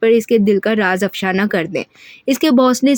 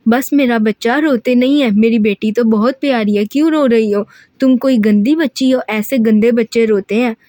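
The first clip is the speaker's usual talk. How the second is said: father's soothing manner. Acted. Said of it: "ठीक अपने बाप के अंदाज में".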